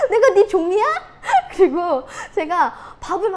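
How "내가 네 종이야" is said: retold outburst. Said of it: "이랬어요, 또".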